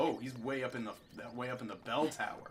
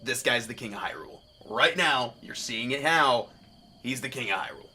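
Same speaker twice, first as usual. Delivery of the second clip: loud, punchy declaration; emphatic insistence; 11 dB louder than usual. Real, not acted. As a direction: proclaim it for all to hear. Insists his guess is right.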